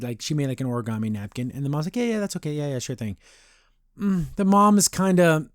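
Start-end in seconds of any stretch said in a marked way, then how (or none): 2.0-3.2 softly imitating a half-listening mom; distracted brush-off. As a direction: toss off an absent-minded, placating reply. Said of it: "not really paying attention to her".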